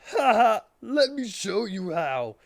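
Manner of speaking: villain gloating as he charges; villain laugh. Acted. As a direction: cackle then menace them.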